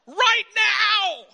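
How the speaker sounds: loud, slow, stern dad order; shouted order. Retold or imitated. Father ordering his daughter to dress, loud and slow. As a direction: bark it at her like a fed-up father. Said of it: "I'm like".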